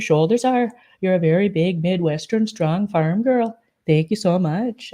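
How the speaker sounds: lightly put-on, unplaceable accent; Anne Graham. Admirer gushing to Jolene, in an unplaceable mock accent. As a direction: imitate someone in a muddled mystery accent. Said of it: "I don't know what that accent is, but it's Anne Graham".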